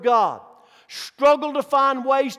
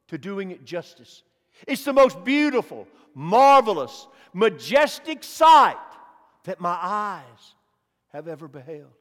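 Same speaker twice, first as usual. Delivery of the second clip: awed hush; 2 semitones lower, 4 dB louder than usual. Acted. Dying preacher describes heaven.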